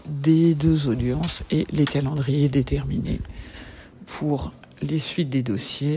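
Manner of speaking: dictating a letter sign-off; dictée. Real, not acted. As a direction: spell out the punctuation. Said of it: "je vous fais une petite dictée". (dictée de fin de courrier)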